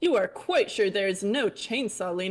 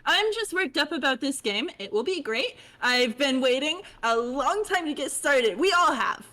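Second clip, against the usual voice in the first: high bubbly chatty voice; high fish girl voice; 5 semitones higher than usual. Acted. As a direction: chirp it like a bubbly troll. Holds character voice.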